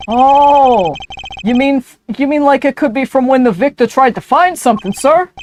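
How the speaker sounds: high, loud eager sidekick; eager detective voice. Acted. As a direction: gush it out eagerly.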